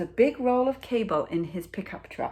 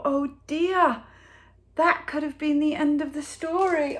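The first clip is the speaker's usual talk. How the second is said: dramatic alarm; 9 semitones higher, 6 dB louder than usual. A narrator's reading. Dramatic turn in picture book.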